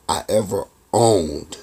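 "owned" set apart, slow and low; slow down and let "owned" fall heavily; stress on "owned". Retold or imitated. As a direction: land deliberately on "owned", dropping the pitch. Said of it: "Pay attention, owned".

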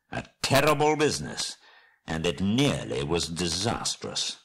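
slow, drawn-out words of glad surprise; amazed exclamation. Acted. Gandalf finding Bilbo alive, slow glad exclamation. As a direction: exclaim with relief, stretching the key words. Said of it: "he exclaimed".

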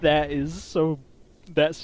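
loud, amazed and drawn out; awed outburst. Real, not acted. Hearing the mod's buff roar, loud awed exclamation. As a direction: let the roar blow you away.

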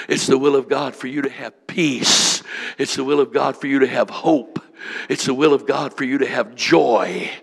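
rising, emphatic sermon refrain with "will" hit each time; preaching at full force. Real, not acted. Preacher declaring to the church, full-force preaching. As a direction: preach it, pressing God's will on every line.

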